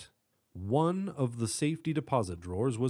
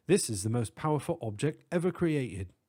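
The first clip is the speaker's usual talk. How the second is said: put-on British accent. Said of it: "distinct British accent".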